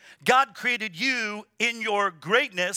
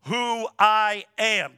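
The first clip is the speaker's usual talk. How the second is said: slow solemn quote; 3 dB louder, much slower than usual. Shown as a demonstration. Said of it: "Can you say that with me?".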